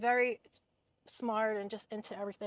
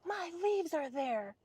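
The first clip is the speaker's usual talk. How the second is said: higher, slow, put-on complaining voice; mimicking the neighbor lady; 6 semitones higher, slower than usual. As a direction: drag out her outrage in a higher pitch. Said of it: "And she's like".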